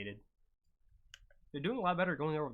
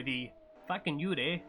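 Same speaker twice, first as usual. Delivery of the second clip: attempted Australian accent that comes out Canadian. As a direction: have a go at Australian, land on Canadian. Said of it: "I can only do Canadian".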